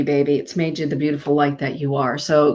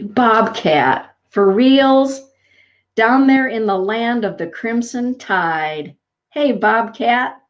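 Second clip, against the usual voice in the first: playful greeting; 5 semitones higher, slower than usual. Real, not acted.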